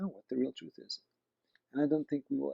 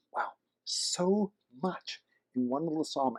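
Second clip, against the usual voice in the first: awed hush; 3 semitones higher, slower than usual. Real, not acted. Awed reaction to the psalm.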